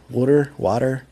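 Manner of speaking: "water, water": first as rounded "wooder", then open "wah-ter"; Philly then standard water. Shown as a demonstration. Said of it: "you can hear it when I say the word water".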